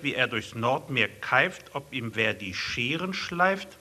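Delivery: rhythmic, punchy poem reading; sing-song verse read to an audience; poem recitation. Acted. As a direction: recite each verse with comic timing. Reads his comic poem aloud.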